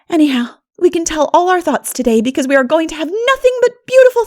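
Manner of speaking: put-on high, bubbling girl's voice; rally the girls with delight; eager Anne. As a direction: enthusiastic young dreamer. Anne chatting on the path.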